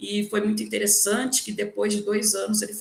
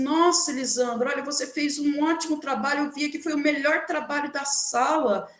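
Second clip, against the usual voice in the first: higher-pitched mock amazement; retold surprise, pitched up; astonished colleague; 5 semitones higher than usual. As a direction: imitate a colleague's startled praise. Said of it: "chegou pra mim e falou assim".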